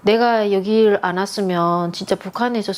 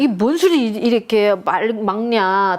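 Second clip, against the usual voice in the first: 놀란 반문 재연; 3 semitones higher than usual. Retold or imitated. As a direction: act out puzzled disbelief. 와인에 놀라 되묻는 장면 재연. (황당해서 높게 되묻다가 차츰 낮아짐)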